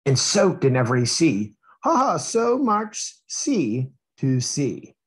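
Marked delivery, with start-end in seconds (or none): 1.8-4.9 playful chuckle. Acted. Reading the book's joke in character.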